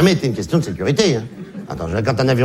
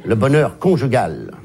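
slow, lower delivery, CON marked in "conjugal"; stress on first syllable; 4 semitones lower, slower than usual. Shown as a demonstration. Comedian summing up married life, first syllable stressed. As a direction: spell out the con in "conjugal", slowly. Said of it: "la première syllabe est très claire".

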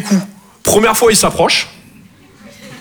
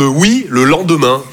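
put-on slow, lower old folks reply; slow lower drawn-out answer; slow old parent; 4 semitones lower, slower than usual. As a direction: drag it out like unhurried parents. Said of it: "Ils me répondent".

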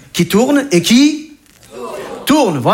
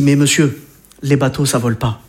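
gérant méprisant; 7 semitones lower than usual. Retold or imitated.

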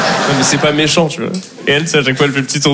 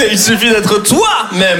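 very slow, drawn-out sarcastic repeat; mocking repeat; 4 semitones higher, much slower than usual. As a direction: repeat her advice with scorn, stretched out. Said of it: "C'est con, Karine".

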